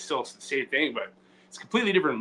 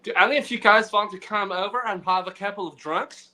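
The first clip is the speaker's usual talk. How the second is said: put-on host voice; 5 semitones higher than usual. Playing host offering drinks.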